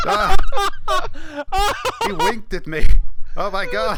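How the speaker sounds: hammed-up clutching-chest gasps; having a heart attack. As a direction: fake a dying old man's shock. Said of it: "will fake a heart attack".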